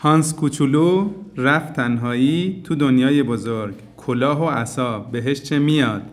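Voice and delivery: measured, rhythmic reading of a Persian poem; poem recitation. Acted. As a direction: tell the tale gently, line by line. Recites his Persian story poem. (rhythmisch vorgetragenes persisches Gedicht)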